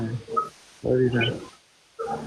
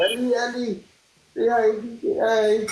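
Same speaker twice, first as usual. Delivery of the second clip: coaxing Ellie; 8 semitones higher than usual. Real, not acted. (mataas na boses na naglalambing)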